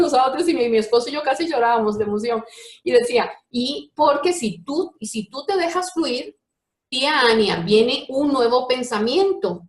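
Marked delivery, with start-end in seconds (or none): 3.5-9.6 slow, deliberate imitation of a child teaching; patient explaining. Little boy teaching Tiania about new thoughts, slow explaining. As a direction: spell it out piece by piece, slowly.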